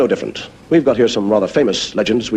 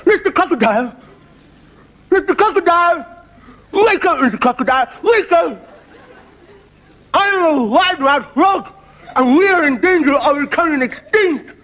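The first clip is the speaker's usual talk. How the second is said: wide-mouthed frog calling. Acted. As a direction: draw every word out through a huge mouth. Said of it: "And he goes".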